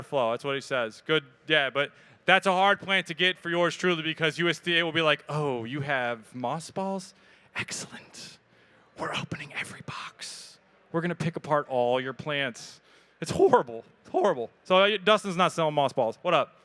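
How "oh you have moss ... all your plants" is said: mock official voice, slow then whispered; lightly voiced inspector snooping through boxes; mock USDA inspector.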